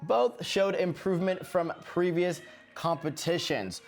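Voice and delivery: light mock British accent over skating commentary; lightly faked British accent; recapping the Sheffield Grand Prix in a put-on British accent. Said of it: "This is my terrible accent".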